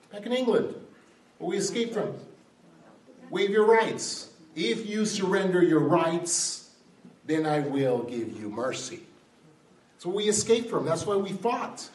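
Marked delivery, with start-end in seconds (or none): 3.3-9.1 lightly acted king's ultimatum; George the third. King demanding surrender from colonists, lightly imperious. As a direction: start high and loud, a ruler laying down terms. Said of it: "George the third".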